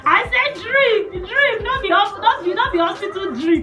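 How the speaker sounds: loud laughing tease; laughing, shouting. Real, not acted. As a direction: laugh and yell it out. Laughing teasing husband.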